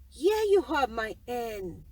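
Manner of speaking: the giant calling his hen loudly; booming giant. Acted.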